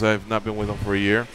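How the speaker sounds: low, soft attempt at French; attempted French accent. Fighter explaining his ex-manager, half-hearted polite French accent. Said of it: "Trying to do a French accent here".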